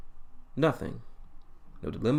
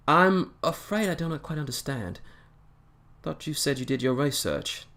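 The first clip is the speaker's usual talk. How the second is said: a touch of higher-pitched puzzlement; lightly voiced puzzled Doctor, pitched up; mildly confused; 6 semitones higher than usual. Doctor to captain who doubts his name, mildly confused. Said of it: "just a little bit of confusion".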